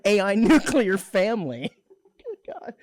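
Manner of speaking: amused, talking through laughter; tearing up with laughter, voice pitched a bit up; real helpless amusement; laughing to tears. Real, not acted. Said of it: "I'm laughing so much".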